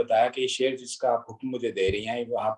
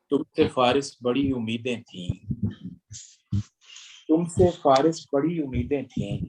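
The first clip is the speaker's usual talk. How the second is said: measured, rhythmic ghazal recital; poetry recitation. Acted. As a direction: recite each line with weight.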